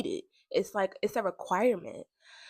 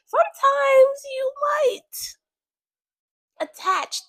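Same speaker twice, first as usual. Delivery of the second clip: breathy whisper, slower; 5 dB louder, much slower than usual. Real, not acted. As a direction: lean in and whisper it like a secret. Confiding aside to listeners.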